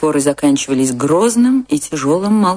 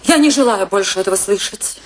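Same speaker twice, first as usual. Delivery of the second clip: raised, sharp stop-it command; angry silencing; 4 semitones higher than usual. Acted. Wife cuts off her husband's lecture, angry and firm. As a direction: shut him up, she's had enough.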